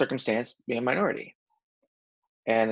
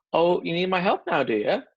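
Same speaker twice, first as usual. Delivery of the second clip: sarcastic; 5 semitones higher, 3 dB louder than usual. Retold or imitated. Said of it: "maybe not quite be as sarcastic".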